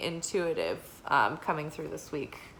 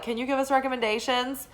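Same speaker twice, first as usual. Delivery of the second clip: lightly voiced customer, higher and quick; restaurant customers; 6 semitones higher, faster than usual. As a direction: imitate customers asking eagerly at the table, pitched up. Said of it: "they're like".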